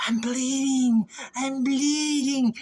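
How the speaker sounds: high, drawn-out mock zombie cry; zombie wail. Playing a bleeding zombie for viewers, mock wail. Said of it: "why does a zombie do that".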